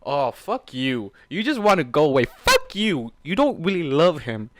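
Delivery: loud bitter curse at the character; angry yelling. Real, not acted. Reader yelling at Storm, angry and bitter. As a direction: shout at her with contempt.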